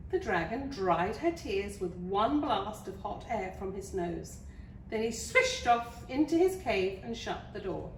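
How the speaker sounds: lively storybook narration; story reading. Acted. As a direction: read it to small children with clear emphasis. Reads a picture book to children.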